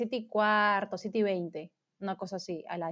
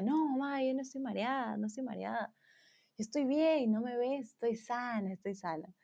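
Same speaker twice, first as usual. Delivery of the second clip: soft protest; 5 dB quieter than usual. Retold or imitated. Tipsy daughter assuring mother she is sober, soft protest. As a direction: softly insist to mom you are fine.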